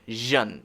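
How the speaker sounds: "zhen" as a low "zhun"; buzzed zh opening "zhen"; ZH sound. Shown as a demonstration. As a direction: say "zhen" with a voiced sh. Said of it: "It's that sound".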